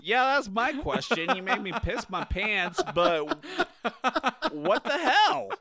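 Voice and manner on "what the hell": higher, incredulous outburst through laughter; real baffled, amused exclamation; laughing disbelief. Real, not acted. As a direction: burst out at the absurdity. Baffled by irrelevant story, laughing.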